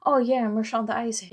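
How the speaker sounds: put-on American accent. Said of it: "Il a fait".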